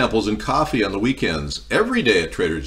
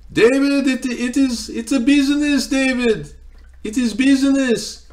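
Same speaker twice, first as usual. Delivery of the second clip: much higher, put-on Persian accent, drawn out; mock Iranian accent; 4 dB louder than usual. Broker brushing off the cheated seller, high mock Iranian accent. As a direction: mimic the broker's accent in a squeaky voice. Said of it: "that's not a racist accent".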